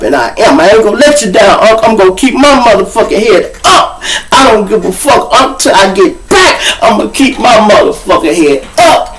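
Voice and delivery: hammed-up vow, high and emphatic; mock-earnest determination. Mocking the literal-minded inmate promising to keep his head up, mock-earnest. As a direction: vow it with overblown resolve.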